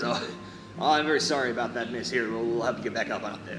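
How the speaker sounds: lightly put-on American accent; casual apology in an American accent. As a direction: play Jacob with a hint of American. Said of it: "he's also has an American accent".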